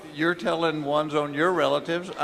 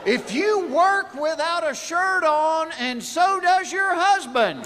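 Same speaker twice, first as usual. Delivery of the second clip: laughing shout; 9 semitones higher than usual. Acted. Punchline setup shouted laughing.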